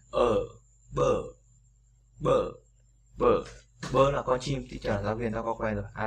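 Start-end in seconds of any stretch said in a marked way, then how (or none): 0.1-3.4 "bơ" with a long drawn er vowel; long er demo. Shown as a demonstration. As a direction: drag out the vowel of "bơ". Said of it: "Âm ơ dài".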